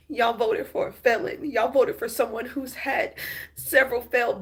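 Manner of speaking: real anger building. Real, not acted. Upset vlogger scolding Trump voters, real anger building. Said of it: "And I'm so angry".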